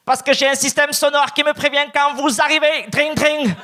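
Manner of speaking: high-pitched mock Asian accent in French; caricatured Asian-accented shopkeeper. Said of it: "me répond avec un accent asiatique".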